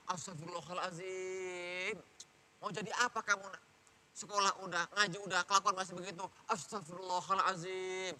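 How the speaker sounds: long-drawn istighfar framing a parent's scolding; pious nagging. Acted. Parent scolding a wayward child, pious nagging. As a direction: nag piously, dragging out the holy words. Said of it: "Itu ngomel versi soleh".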